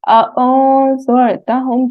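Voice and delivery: अओज़रतहुम with the n hidden and nasalised before the next letter; ikhfa. Shown as a demonstration. Teacher shows the class the ikhfa in अओज़रतहुम. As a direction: hide the n of अओज़रतहुम in a nasal hum. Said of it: "इख्फा करना है हमने".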